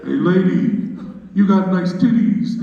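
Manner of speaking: sleazy catcall. Retold or imitated. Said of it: "Isn't catcalling hilarious?".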